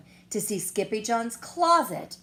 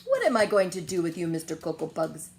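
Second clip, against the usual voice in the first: scolding; 7 dB louder, faster than usual. Acted. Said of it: "she scolded".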